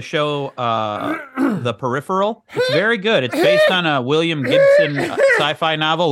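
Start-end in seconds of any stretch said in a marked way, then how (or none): 3.2-6.1 laughing while talking. Real, not acted. Rushing to fill the minute.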